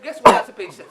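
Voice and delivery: loud setup before the reveal; loud teasing buildup. Real, not acted. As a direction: hype up the riddle to the audience. Building up to a punchline.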